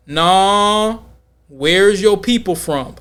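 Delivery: slow, pressing repeat at normal pitch; drawn-out "Nah", then press the question slowly; insistent probing. Retold or imitated. Rejecting his New York answer, mock insistent.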